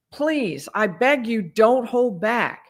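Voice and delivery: lightly acted begging, drawn out at the end; retold pleading. Retelling detective pleading with witness.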